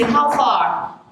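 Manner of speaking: casual Nigerian-style how far; slangy how far. Shown as a demonstration. Greeting a friend casually, slangy how far. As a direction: drop it like a street greeting. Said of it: "Sometimes you hear people say".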